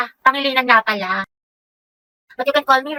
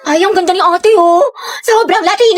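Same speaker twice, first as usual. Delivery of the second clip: excited, raised-voice gushing; too-loud admiring; 4 semitones higher, 3 dB louder than usual. Acted. Friend admiring a stranger in public, too-loud gushing. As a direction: gush over her without lowering your voice. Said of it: "ang lakas ng boses mo".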